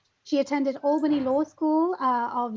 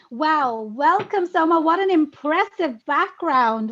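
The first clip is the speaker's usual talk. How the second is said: bright, eager greeting, lifted and louder; excited welcome; 3 semitones higher, 6 dB louder than usual. Real, not acted. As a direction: greet her like you're thrilled she came. Host warmly welcoming the guest.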